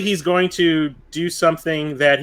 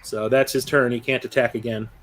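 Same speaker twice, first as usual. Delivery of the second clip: usual speaking voice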